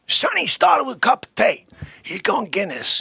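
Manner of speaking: mock outrage. Comic rant about Sonny's drink.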